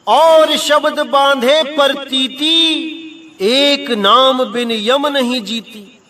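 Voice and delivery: slow, measured chanting of the couplet; verse recitation. Acted. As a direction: intone the scripture verse slowly. (धीमे लय में दोहे का पाठ)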